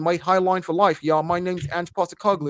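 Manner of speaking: light mock Australian accent, a little slow; lightly imitating an Aussie coach; Ange Postecoglou accent. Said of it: "the way A O said that with that accent".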